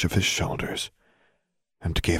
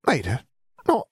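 confused, higher-pitched gasping; distressed gasp; 10 semitones higher than usual. A narrator's reading. Tortured woman babbling at last, gasping and confused. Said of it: "she gasped, sounding distressed and confused".

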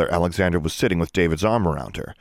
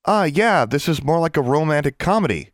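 sly wink; 8 semitones higher than usual. A narrator's reading. Alexandra slyly teases the twins about a romantic comedy. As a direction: tease them with a knowing wink in the voice. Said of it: "Alexandra winked".

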